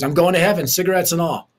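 a hint of a stubborn mom teasing; cheeky mom. Mom quoted, joking.

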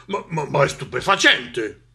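monster stuttering in astonishment; stammering amazement. Acted. Monster watches the snake flee, amazed stammer. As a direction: stumble on the first word, amazed.

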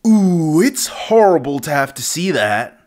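a chuckle running through the words; laughing through it. Shown as a demonstration. Retaking a dub line, laughing through it. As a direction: laugh while you say it.

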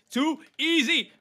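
high, loud, slow gloat. Acted. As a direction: stretch it out, smug and triumphant. Gloating after a win.

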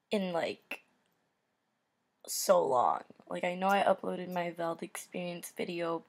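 talking around a retainer; slightly lisped, retainer on; retainer in mouth. Real, not acted. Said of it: "sorry for the way I'm talking, I have retainer on".

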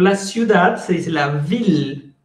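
ville said with a clear il sound, vil. Shown as a demonstration. Teacher showing learners the il sound in ville. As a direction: say ville with an L, not a y. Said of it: "la otra forma de pronunciar I L L es il".

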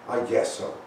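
a grudging, breathless mumble; unenthusiastic. Acted. Little Bear half-agrees with Grandpa, grudging and unenthusiastic. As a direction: give in without meaning it. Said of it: "Doesn't sound very enthusiastic".

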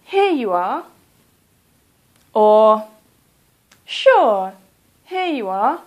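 lightly voiced candidate handing over ID; model polite reply. Shown as a demonstration. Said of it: "you can also say".

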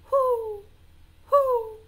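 high, loud, rounded hoots; two high falling hoots; owl hoot. Shown as a demonstration. Teacher wrongly giving elephant an owl's sound, high hoots. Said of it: "The elephant goes".

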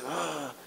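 soft acted groan; imitated sigh of lingering anger; weary groan. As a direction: let out a quiet, burdened "ah". Imitates waking still carrying anger.

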